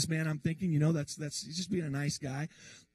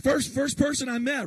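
louder and higher, marveling; amazed; 6 semitones higher, 5 dB louder than usual. Real, not acted. Telling the congregation about the first person he met, amazed and louder. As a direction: exclaim it in wonder.

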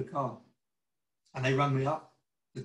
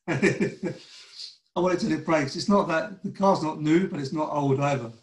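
much louder, insisting he'll keep the car; emphatic retold retort; 8 dB louder than usual. Preacher retells telling the car dealer he keeps his car, loud and firm. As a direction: push it out loud and firm, no arguing. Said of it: "I said".

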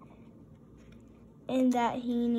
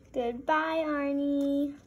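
grand farewell; 3 semitones higher, 4 dB louder, slower than usual. Acted.

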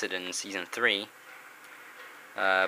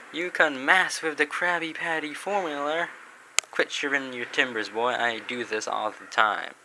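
Mister Krabs voice; 3 semitones higher than usual. Acted. SpongeBob scene, Krabs speaking.

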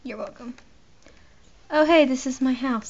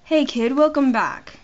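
attempted British accent at talking volume; easygoing, lightly done British greeting; 4 dB louder than usual. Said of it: "How do I do a British accent?".

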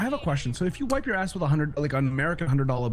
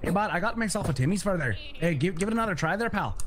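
playful, lightly put-on Canadian accent; chatty mock Canadian accent. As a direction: ham up a Canadian accent a little. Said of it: "don't make fun of my Canadian accent".

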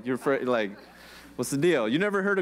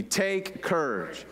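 slow reassurance; 3 semitones higher, much slower than usual. Shown as a demonstration. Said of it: "Say that with me".

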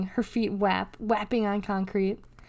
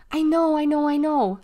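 high, louder, insistent repetition; impatient agreement; 6 semitones higher, 5 dB louder than usual. A narrator's reading. Brother cuts off Deli's rules, impatient. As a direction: brush off the rules, pitched well up.

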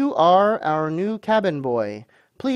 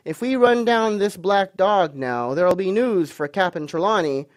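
high, loud, eager voice; quite excited; 5 semitones higher, 5 dB louder than usual. A narrator's reading. Landlord hopes Ben catches Black Dog, excited and loud. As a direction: rattle on with rising excitement. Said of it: "now quite excited".

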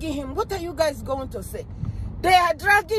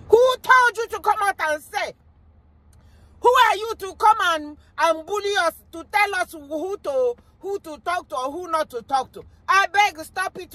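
indignant retort; 3 semitones higher than usual. Retold or imitated. Acting out the people's angry reply.

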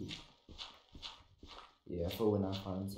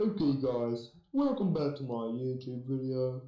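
YouTuber intro voice; 3 semitones higher than usual. Pretend. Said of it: "You sound like Pyrocynical".

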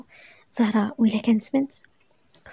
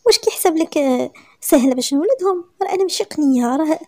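louder, higher exasperated complaint; indignant wife; indignant protest; 5 semitones higher, 4 dB louder than usual. Acted. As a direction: push back at him, fed up. Zahra protesting to husband.

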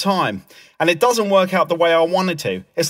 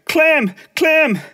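high-pitched mock yell; retold mum screaming; 9 semitones higher than usual. Mum calling Clem in his room, mock scream. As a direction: imitate a mother calling sharply. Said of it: "she started screaming".

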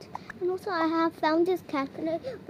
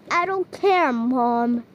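loud defiant snap; defiant yell; 4 semitones lower, 6 dB louder, slower than usual. Acted. Child defying her scolding mom, loud defiant yell. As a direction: throw it back at her, loud and stubborn. Kid defies scolding mother.

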